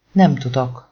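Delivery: protesting. Acted. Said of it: "tiltakozott Nathan".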